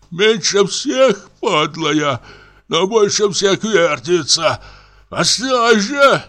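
put-on high, slow drunken babble, voice far from the narrator; a drunk actor raving at the lamp; slurred high drunken rant; drunk comic raving.

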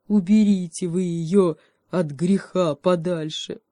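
lightly voiced bear plea; bear pleading. A narrator's reading. Bear begging to take the monkey away, light plea. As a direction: beg them, lightly.

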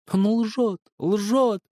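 high loud shriek on "лжёт". A narrator's reading. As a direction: squeal it out in fury. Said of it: "взвизгнула Надежда". (визгливо, с упором на «лжёт»)

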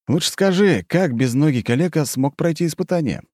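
high, mocking sneer; smirking. A narrator's reading. Narrator mocks the crippled Bogdan, smirking. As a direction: needle him with a smirk. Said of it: "усмехнулся я".

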